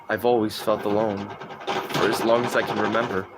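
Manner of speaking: low, soft, brooding game monologue; Simon monologue. Acted. Streamer reciting the Cry of Fear opening, quiet and brooding. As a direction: recite it like a lonely haunted man. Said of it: "I do the monologue".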